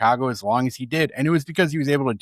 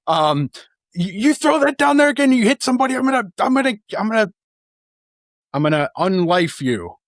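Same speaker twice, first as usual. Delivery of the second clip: furious manager yelling; 7 semitones higher than usual. Retold or imitated. Manager blowing up at his helmet-throwing catcher, a furious high yell. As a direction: scream at him like you're about to lose it. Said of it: "Finally, Ozzie just gets up and he says".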